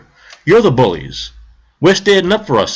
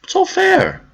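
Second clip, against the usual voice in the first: sarcastic; slower than usual. Acted. Sarcastic mock.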